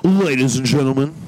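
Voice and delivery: announcer's opening call; projected radio announcer greeting. Shown as a demonstration. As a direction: open the show like a radio host. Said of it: "Where's your radio voice?".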